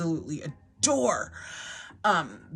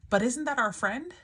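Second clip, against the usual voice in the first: put-on child's voice; 6 semitones higher than usual. Daughter voiced in story.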